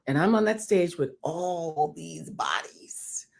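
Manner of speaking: slow hushed whisper. Real, not acted. Setting the crowded audition scene, slow whisper. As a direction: breathe it out slowly.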